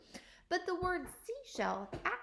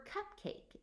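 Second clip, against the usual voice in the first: cupcake said slowly and evenly, every sound clear; slow, clear modelling; 9 semitones higher, 7 dB quieter than usual. Shown as a demonstration. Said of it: "how many syllables we hear in the word cupcake".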